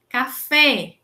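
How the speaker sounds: "café" com a última sílaba forte, FÉ; tônica na última sílaba. Shown as a demonstration. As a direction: dizer "café" mais alto, batendo no "fé" final. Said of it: "última sílaba tônica". ("café" com acento forte no fim)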